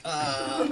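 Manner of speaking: low, drawn-out weary groan; disdainful groan. Retold or imitated. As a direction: imitate a put-upon "uhh". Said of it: "she made this sa-, sound now".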